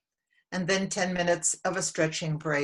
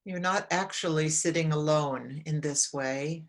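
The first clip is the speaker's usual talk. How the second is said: calm, measured meditation guide with long pauses; unhurried guidance, phrase by phrase; guided meditation. Real, not acted. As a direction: lead them gently inward, leaving long silences between phrases.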